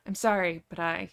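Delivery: apology that fades on "but I"; trailing off. A narrator's reading. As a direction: let "but I" drop away unfinished. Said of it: "he trails off".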